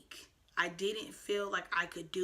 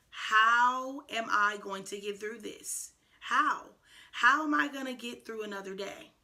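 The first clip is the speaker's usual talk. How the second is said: recalled anguished questioning; 3 semitones higher, 6 dB louder than usual. Retold or imitated. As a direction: relive asking yourself, emphatic on each how. Recalls desperately asking herself how to cope.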